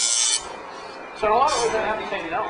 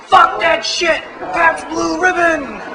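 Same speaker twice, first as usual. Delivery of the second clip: mock scream; 11 semitones higher, slower than usual. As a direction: scream it in hammed-up disgust, drawing out Blue Ribbon. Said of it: "So I got to scream".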